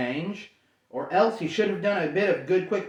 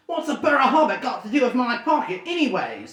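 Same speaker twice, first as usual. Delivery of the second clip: higher, louder suspicious troll; 7 semitones higher, 4 dB louder than usual. Acted. Troll William questioning Bilbo, suspicious troll voice.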